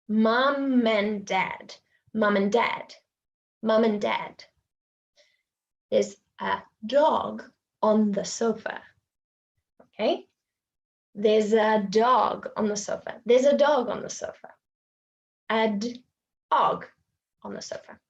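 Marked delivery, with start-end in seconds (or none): 0.1-4.3 "Mum and dad" as mu-man-dad; linked phrase. Shown as a demonstration. Teacher demonstrating linking. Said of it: "linking demo". 11.1-14.5 "dog on" as do-gon; linked phrase. Shown as a demonstration. Teacher demonstrating linking. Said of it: "linking demo".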